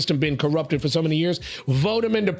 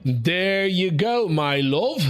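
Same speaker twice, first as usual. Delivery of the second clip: drawn-out, hammed-up Scottish lilt; mock Scottish accent; 2 semitones higher, much slower than usual. Host praising co-host's question, mock Scottish accent. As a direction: put on a muddled Scottish accent with a hint of Arabic. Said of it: "That's my S-, Scottish accent".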